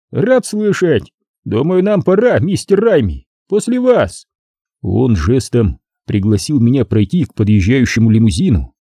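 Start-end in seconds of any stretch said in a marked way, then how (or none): 0.1-4.3 mock-polite gangster. A narrator's reading. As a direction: usher him ironically. Boss mock-polite to hero. (с насмешливой учтивостью)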